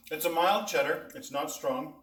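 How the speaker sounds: talking with a full mouth; words muffled by chewing. Real, not acted. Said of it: "I'm talking with my mouth full".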